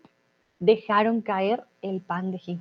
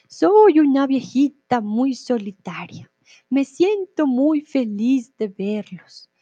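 hushed, slow sweet grandma voice; old lady voice; 3 dB louder, slower than usual. Shown as a demonstration. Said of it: "perdón por mi voz de viejita".

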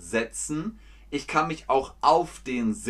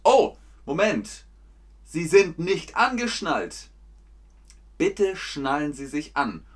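flight attendant; 4 semitones higher than usual. Acted. Flight attendant scolds passenger.

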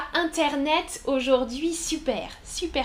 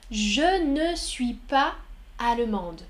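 slowed model sentence. Shown as a demonstration. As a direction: drag it out so learners hear each word.

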